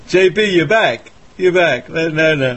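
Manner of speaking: high, loud welcome back; excited greeting. Real, not acted. Caller reconnects, excited.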